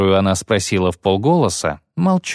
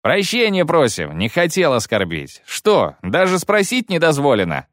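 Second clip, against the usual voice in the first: 1 mock respectful; 6 semitones higher than usual. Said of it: "преувеличенно почтительно".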